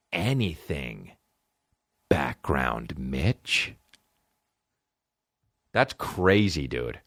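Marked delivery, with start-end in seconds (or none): 0.1-3.7 drawn-out question. Real, not acted.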